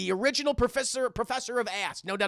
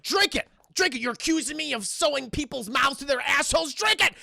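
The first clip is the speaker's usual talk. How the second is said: forceful demand; 4 semitones higher than usual. Acted. Doctor forces the detective to drink the water, high and insistent. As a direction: push the drink on him, rising.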